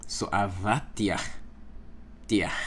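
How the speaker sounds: avatiach and tiach with a soft exhaled ch; lighter biblical ch. Shown as a demonstration. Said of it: "In biblical days, it was lighter".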